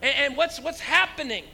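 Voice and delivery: high, loud puzzled question; confused laughing crowd. Retold or imitated. Churchgoers caught up in laughter, puzzled. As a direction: ask like you can't stop laughing. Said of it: "everybody's going".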